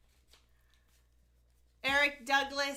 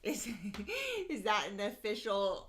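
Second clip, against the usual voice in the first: laughing; 4 semitones lower than usual. Real, not acted.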